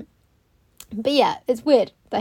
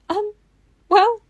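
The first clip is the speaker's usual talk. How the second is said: high, slow, tearful wail; imitating crying; 11 semitones higher, 7 dB louder, much slower than usual. Client at the hair basin, mock crying. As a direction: wail it as if bursting into tears. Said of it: "and burst into tears".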